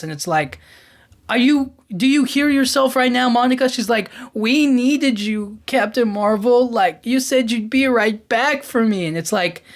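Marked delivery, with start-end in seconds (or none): 1.3-3.7 higher, incredulous mock comeback; exasperated retort. Mocking Monica as if talking back, incredulous. 4.3-9.1 whiny Monica. Retold or imitated. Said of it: "she felt so whiny and complaining".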